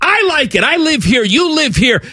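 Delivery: high, whiny voice, sudden shout on who cares; mock self-loathing local. Sulky Columbus local mocking himself, high and whiny.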